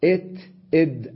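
إت إد, clipped t then d; إت إد isolated; letter sounds. Shown as a demonstration. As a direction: contrast إت and إد at the teeth. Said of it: "أقرب، الدال مع التاء".

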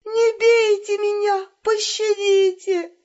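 high, slow hammed-up begging; mock pleading. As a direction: plead for mercy like a terrified victim. Elena begs in staged robbery.

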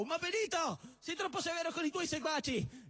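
wife's voice. Acted. Wife voice chiding.

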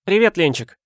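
high, bright hello; bubbly young girl's hello; cheerful greeting. A narrator's reading. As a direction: greet her full of joy. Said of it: "жизнерадостно поздоровалась Тайка".

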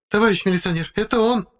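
high woman's voice pointing a finger; accusing woman. A narrator's reading. Wife denouncing the narrator to the captain, high accusing voice. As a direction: accuse him before the officer.

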